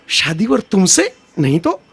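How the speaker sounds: deflate it into a timid plea; meek filmy plea. Retold or imitated. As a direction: Pan Pasand ad line turned timid. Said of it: "ઓલા પાન પસંદ જેવો".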